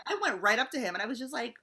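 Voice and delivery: normal talking voice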